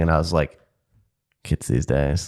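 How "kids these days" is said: put-on very old man. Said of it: "in my old man voice".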